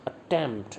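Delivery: अटेम्प्ट with a brief first syllable and weighted TEMPT; stress on second syllable. Shown as a demonstration. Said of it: "ऐसे बोलते हैं".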